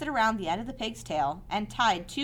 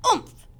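grunt. Acted. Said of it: "he grunted".

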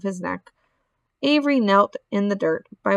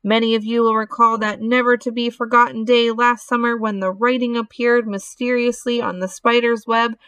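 loudspeaker announcer; 3 semitones higher than usual. Acted. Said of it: "said the loudspeaker".

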